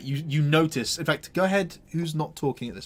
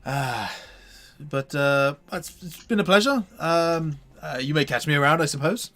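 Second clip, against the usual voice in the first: loud, bright showman's welcome, higher; NPC Octavio greeting; 4 semitones higher, 6 dB louder than usual. Acted. GM as Octavio to the party, loud and higher. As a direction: hail them like a smug traveling showman. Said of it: "glances across and goes".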